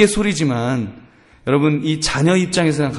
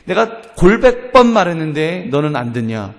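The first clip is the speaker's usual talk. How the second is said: mild mock parental nagging; acted reproach of a disobedient child; exaggerated scolding; 3 semitones higher than usual. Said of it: "그 말을 과장하는 겁니다".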